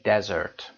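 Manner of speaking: دزرت said slowly with a short e, dez-ert; careful pronunciation. Shown as a demonstration. Teacher shows students how to say دزرت, carefully. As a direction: spell out دزرت clearly, not دیزرت. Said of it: "تلفظ رو دقت داشته باشید".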